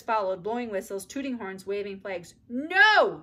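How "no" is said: high loud shout of no; bossy refusal; scream. A narrator's reading. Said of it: "screamed Ramona".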